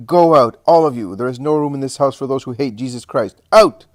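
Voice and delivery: loud, high, furious dismissal; wrathful shouts, peaking on the single-word order; imposing wrath. A narrator's reading. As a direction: drive them out with explosive commands. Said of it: "She is imposing in her wrath".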